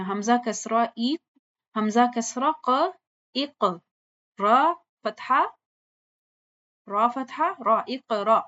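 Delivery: slow spelled-out syllables building to اقرا; teacher spelling out اقرا slowly; Quran spelling drill. Shown as a demonstration. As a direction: spell each syllable, then join them. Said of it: "متحرک الف جو ہے وہ حمزہ".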